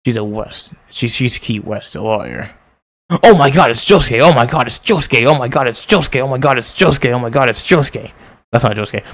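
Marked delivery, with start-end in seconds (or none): 3.2-8.1 excited yelling. Real, not acted. Excited fan yelling at screen.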